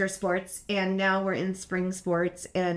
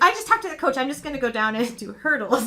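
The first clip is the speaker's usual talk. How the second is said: put-on teen daughter; 4 semitones higher, 4 dB louder than usual. Voicing Abby's announcement.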